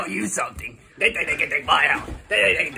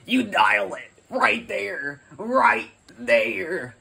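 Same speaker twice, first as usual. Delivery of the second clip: slow, loud exasperated pointing; 3 semitones higher, 5 dB louder, much slower than usual. Acted. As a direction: spell it out in annoyance.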